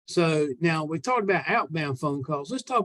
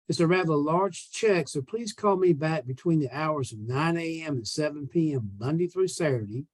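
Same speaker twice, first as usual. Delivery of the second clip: friendly salesman leaving a phone message; a salesman's upbeat voicemail to an old lady; voicemail script read. Shown as a demonstration. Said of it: "here's basically what I'm gonna say".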